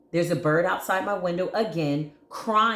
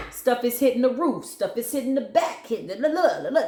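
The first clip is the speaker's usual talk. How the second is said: higher and louder, mock-dramatic; dramatic build; 6 semitones higher, 3 dB louder than usual. Real, not acted. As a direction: paint the chaos with a singsong flourish. Describing entity wrecking a house.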